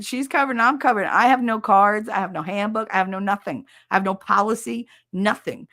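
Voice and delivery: retold exasperation, ticking off each missing item; exasperated protest. Caller telling the clerk she never got paperwork, exasperated. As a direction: protest with mounting emphasis on each "no".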